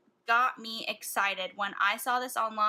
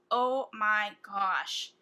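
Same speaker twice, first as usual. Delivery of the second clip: slow, louder and amazed; drawn-out awe; 4 dB louder, much slower than usual. Real, not acted. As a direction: stretch out every word. Picturing a fall look.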